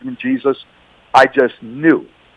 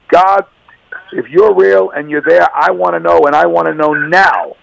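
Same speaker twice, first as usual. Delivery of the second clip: raised pitch, mild mock yell at God; retold yelling; 3 semitones higher than usual. Man retelling his rooftop outburst at God, mild retold yell. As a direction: demand an answer from God, only half yelled. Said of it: "I just started yelling and screaming".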